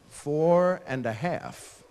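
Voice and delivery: slow, drawn-out "Four"; imitating a kid stretching out each word; little kid's answer. Child asked how old they are, slow proud answer.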